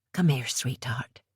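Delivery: tender mother. Acted. Mother comforting her daughter.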